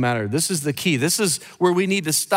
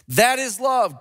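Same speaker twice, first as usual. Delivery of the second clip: ringing That is love; 5 semitones higher than usual. Real, not acted. Preacher proclaiming the cross as love. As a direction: proclaim it firmly.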